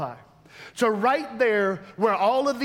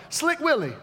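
playful nicknames; 5 semitones higher than usual. Acted.

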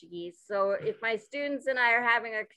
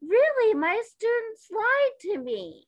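shocked disbelief; 12 semitones higher, 5 dB louder than usual. Real, not acted. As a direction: gasp it out in stunned disbelief. Shocked at students' lie.

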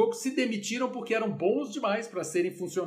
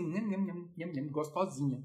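munch it like something delicious; mock munching; 2 semitones lower, 7 dB quieter than usual. Shown as a demonstration. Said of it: "Yam Yam é tipo assim".

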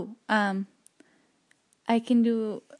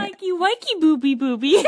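Roz voice; 6 semitones higher, 6 dB louder than usual. Shown as a demonstration. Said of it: "do Renee Zellweger".

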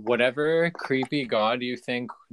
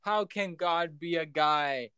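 mock outrage; 7 semitones higher, slower than usual. Real, not acted. Mock outrage about God as male.

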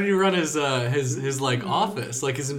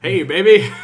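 mock seductive come-on; 7 semitones higher, 14 dB louder than usual. Mock seduction during air raid.

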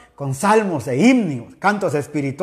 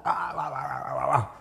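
imitated dog bark; 6 semitones lower, 11 dB quieter than usual. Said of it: "empieza a ladrar".

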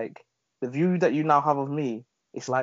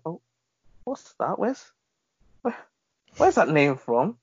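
higher, lightly mimicked curious caller; curious customer; 6 semitones higher than usual. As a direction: ask it like the nosy customer, pitched up and slowing. Customer's curious question, retold.

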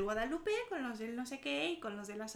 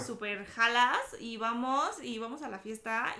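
put-on slow, lightly posh-kid "súper jalas y vamos"; a hint of a rich-kid chilango inviting to a party; chilango fresa accent; 3 dB louder than usual. Shown as a demonstration. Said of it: "Y el fresa es obviamente así". (imitación ligera de chilango fresa)

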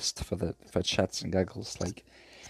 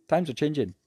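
weary pronouncement; 5 semitones higher than usual. Acted. Sighs, then repeats dramatically.

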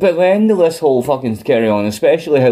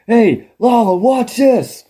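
high, taunting call to Lala; a cocky sing-song tease; mock King voice; 9 semitones higher, slower than usual. King taunting Lala before the attack, high and cocky. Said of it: "And he's like".

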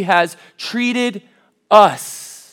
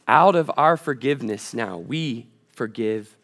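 normal talking voice

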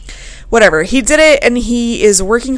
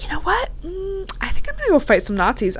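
acted partner quote; 8 semitones higher, 5 dB quieter, faster than usual. Voices a hypothetical departing partner.

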